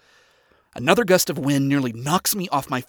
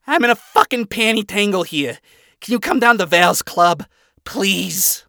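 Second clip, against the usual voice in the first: higher, pleading character voice; Angel pleading; 7 semitones higher, 7 dB louder than usual. Acted. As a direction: beg in a higher put-on voice. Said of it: "Angel pleads".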